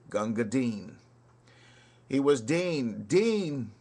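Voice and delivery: rhythmic ballad recital with swinging beat; poem recitation. Acted. Reciting Kipling's soldier ballad to listeners, rhythmic recital. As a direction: recite it like a barrack-room ballad.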